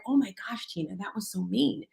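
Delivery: half to yourself, guilty realisation; self-reproach. Retold or imitated. Speaker scolds herself for being mean to mom, hushed and guilty.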